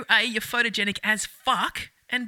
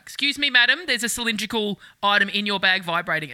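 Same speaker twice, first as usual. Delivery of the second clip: a hint of a formal airport officer; loud, officious "excuse me, madam"; lightly voiced security guard announcing it; mock security officer; 4 dB louder than usual.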